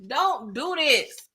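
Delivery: high, drawn-out mock-tearful plea; hammed-up weepy begging, starting high and sliding down; a singer crying. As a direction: beg slowly as if about to cry. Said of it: "start crying like a singer".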